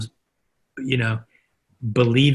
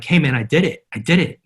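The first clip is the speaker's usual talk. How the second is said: raised, eager retold announcement; excited announcement; 4 semitones higher than usual. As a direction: proudly report your feat to an old mentor. Excited phone call to former interviewer.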